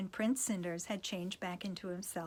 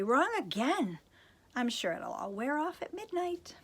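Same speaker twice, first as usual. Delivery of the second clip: fairy voice; 5 semitones higher than usual. Acted. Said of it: "said the fairy".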